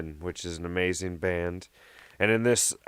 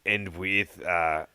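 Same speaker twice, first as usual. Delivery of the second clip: Sean Connery impression; slower than usual. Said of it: "he sounds like this now".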